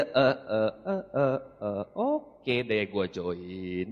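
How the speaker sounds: stall, then give up with a sigh; reluctant giving in. Retold or imitated. Younger brother to older brother, hesitantly agreeing to join.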